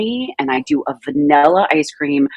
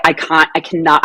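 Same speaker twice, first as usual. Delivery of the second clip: English broad-A vowel in can't and cannot; accidental English accent. Real, not acted. Guest gushing about a band, slipping into English accent. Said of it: "did I just get an English accent there".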